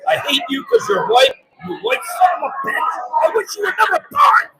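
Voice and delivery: acted tirade, pitch climbing as it goes; imagined angry outburst. Acts out an imagined hateful confession.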